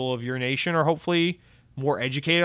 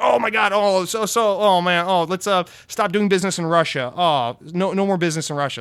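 hammed-up, louder, higher gasping fuss; mock outrage; 4 semitones higher, 6 dB louder than usual. Everyone mocked for caring only about Russia, in a hammed-up louder alarmed voice. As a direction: ham up a sudden fake panic. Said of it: "And everyone's like".

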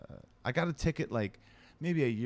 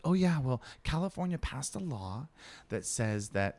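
nicer than real. Retold or imitated. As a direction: play the clerk kinder than she was. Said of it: "she was not as nice as I'm making her sound".

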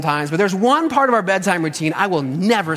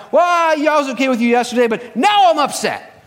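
fickle mood swing; 5 semitones higher, 3 dB louder than usual. Pretend. God pictured as changing his mind.

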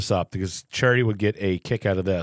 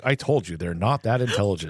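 a hint of an alien, lightly voiced; deadpan little alien voice; 2 semitones lower than usual.

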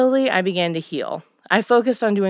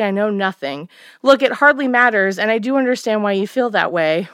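remorseful mother; 3 semitones higher, 3 dB louder than usual. Acted. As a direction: apologize with regret.

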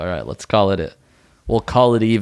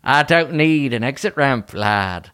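put-on improvised Irish-Scottish character accent; put-on Celtic accent. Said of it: "who's from Ireland".

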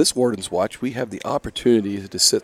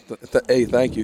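voice giving out; 2 semitones higher than usual. Real, not acted. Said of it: "'cause I'm losing my voice".

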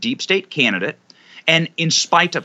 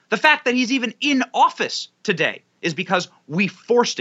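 higher-pitched, acted indignation; mock indignant accusation; 6 semitones higher than usual. Commentator voicing the establishment accusing its target, mock indignant.

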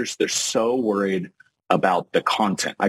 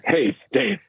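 friendly greeting; 13 semitones higher than usual. Shown as a demonstration. Greeting a buddy in conversation.

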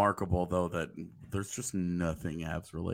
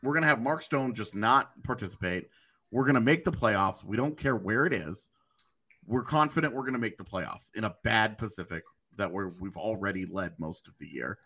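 defiant team voice; 2 semitones higher than usual. Retold or imitated. Team's imagined defiant statement.

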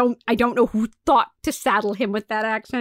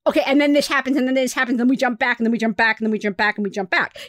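monotonous run-on list; singsong chain of and-thens, sinking gradually; run-on mock recap; faster than usual. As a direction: rattle it off as a tedious, repetitive recap. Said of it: "You can't, you can't just".

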